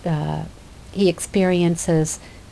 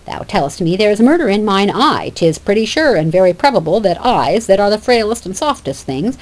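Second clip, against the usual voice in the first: scornful Phoebe; 2 semitones higher than usual. Acted.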